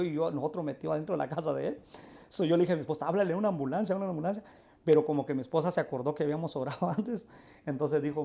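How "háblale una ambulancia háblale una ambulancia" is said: higher-pitched, mildly urgent reenactment; urgent retold plea. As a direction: re-enact an urgent request, repeated. Urge a la esposa a llamar. (urgencia recreada al pedir ayuda)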